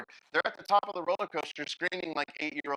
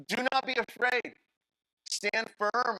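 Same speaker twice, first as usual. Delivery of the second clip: commanding Moses; 8 semitones higher, 4 dB louder, slower than usual. Acted.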